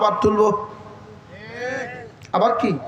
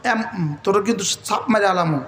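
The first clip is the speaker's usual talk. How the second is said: father's threat; 3 semitones lower than usual. Retold or imitated. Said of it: "বাবা ধমক দিলে ছেলের কি".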